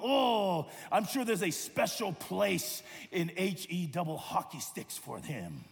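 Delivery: mock grumble. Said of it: "Maybe they grumbled".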